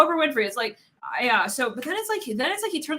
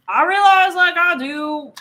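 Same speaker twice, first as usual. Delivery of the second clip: loud, higher drawn-out declaration; loud confession; 6 semitones higher, 9 dB louder, slower than usual. Acted. Reader voicing someone who admits their love, loud confession. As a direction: blurt it out loud, stretching the words.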